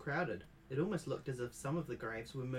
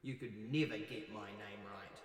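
lightly lowered ghostly voice; a hint of a bitter dead woman; 3 semitones lower, 4 dB quieter than usual. Ghost scolding grandmother about her name, low and cold.

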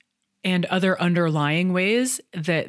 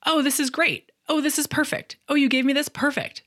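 high, cooing praise; sing-song parent voice, much higher; mom praising toddler; 10 semitones higher than usual. Retold or imitated. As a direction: pile on the praise like to a four-year-old. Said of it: "as a way of saying".

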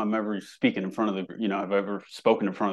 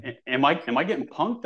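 confused disbelief; 4 semitones higher than usual. Retold or imitated. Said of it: "I'm like".

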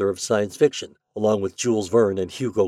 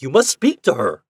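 loud, raised, insistent demand; roared demand; 4 semitones higher, 6 dB louder than usual. A narrator's reading. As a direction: insist loudly, voice lifted. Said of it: "roared Ford".

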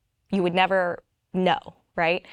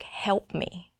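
silent plea; 7 dB quieter than usual. Retold or imitated. Silent plea in her head.

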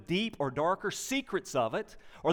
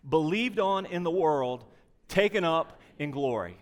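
many voices in unison. Real, not acted. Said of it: "Let's read this together".

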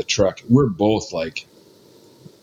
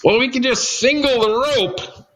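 high, breezy mock-casual voice; Dwayne's voice; 12 semitones higher than usual. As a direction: pitch it up and make it sound like no big deal. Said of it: "And he goes".

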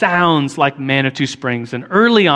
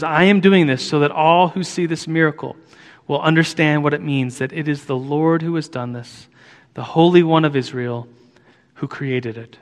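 scripture reading. Acted. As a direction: read the verse with hushed reverence. Reads verse twenty.

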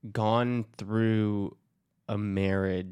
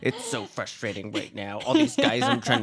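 laughing; 5 dB louder than usual. Real, not acted. Joking about her dating.

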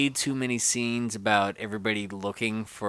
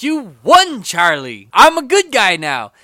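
mock Wonka; 7 semitones higher, 10 dB louder than usual. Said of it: "and he's like".

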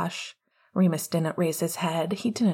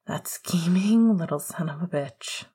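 seething. Acted. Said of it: "Remus seethed, his laugh seeping out through clenched teeth".

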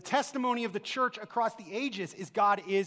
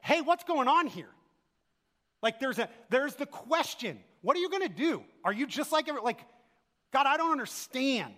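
bewildered plea; 5 semitones higher than usual. Retold or imitated. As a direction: ask God what's going on, baffled. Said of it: "Elijah turns to God and says".

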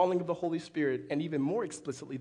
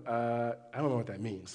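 soft, lower, puzzled churchgoer voice; lightly voiced confused congregation member, a touch lower and softer; confused listener; 6 semitones lower, 5 dB quieter than usual. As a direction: play a lost congregant, half-mumbled. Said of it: "some of you are going".

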